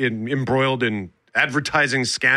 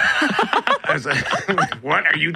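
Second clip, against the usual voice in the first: laughing; 3 semitones higher, much slower than usual. Retold or imitated. Retelling reaction to slang, laughing.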